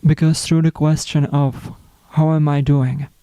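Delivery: unhurried spiritual reflection, long pauses between phrases; guided meditation. Acted. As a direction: let each phrase settle before the next. Leads a self-love reflection.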